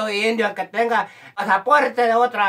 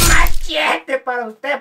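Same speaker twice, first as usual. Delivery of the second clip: loud, slow higher call; catchphrase call; 5 semitones higher, 6 dB louder, slower than usual. Acted. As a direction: blast out a stretched MACHETE. Comic catchphrase called out. (pregón cómico fuerte y alargado)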